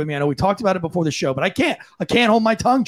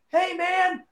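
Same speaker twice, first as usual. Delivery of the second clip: demo call out; 11 semitones higher, 5 dB quieter than usual. Shown as a demonstration. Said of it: "nothing wrong with you yelling".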